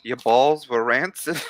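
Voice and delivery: accidental Irish. Pretend. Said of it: "That was, like, Irish".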